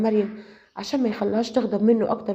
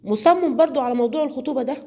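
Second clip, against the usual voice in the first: a touch higher and louder, mildly angry; angrier; 4 semitones higher, 4 dB louder than usual. Acted. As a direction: push back with rising annoyance. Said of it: "غضبت أكتر وردت عليه".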